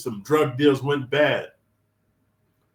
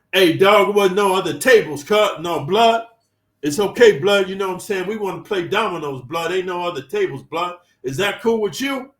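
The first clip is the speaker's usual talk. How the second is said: raised, pushy, higher street swagger; loud taunting gang voice; 5 semitones higher, 4 dB louder than usual. Retold or imitated. Bloods crowding the narrator at the table, loud taunting. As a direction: loom over him, needling him into a fight.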